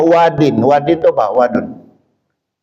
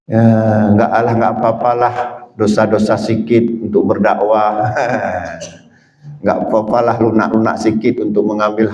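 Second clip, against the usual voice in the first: lower, offhand excuse-making; mocking lax preachers; 4 semitones lower than usual. Preacher parodying those who excuse sin for dakwah, lower and offhand. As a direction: shrug it off like a lazy preacher. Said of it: "Nggak boleh".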